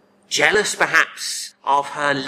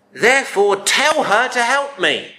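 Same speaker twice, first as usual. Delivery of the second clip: angry order; 7 semitones higher, 3 dB louder than usual. Acted. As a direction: order him indignantly to step in. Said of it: "she finishes with an order".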